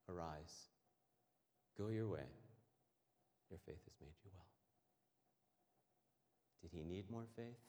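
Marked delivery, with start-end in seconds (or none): 0.1-4.5 gentle blessing. Retold or imitated. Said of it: "So he says to him".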